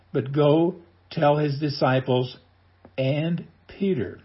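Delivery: slow quoted verse. Shown as a demonstration. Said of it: "Did you get that?".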